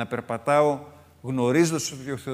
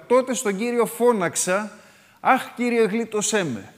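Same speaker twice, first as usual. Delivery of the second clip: higher, slow plea to the Lord; crying out; 8 semitones higher, 4 dB louder, slower than usual. Retold or imitated. The psalmist crying to the Lord, higher slow plea. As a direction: cry out the prayer, drawn out. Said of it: "το φώναξα".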